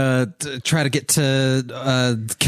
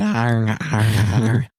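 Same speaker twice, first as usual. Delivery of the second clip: pirate arr. Acted. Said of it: "putting it in front of my mouth and going".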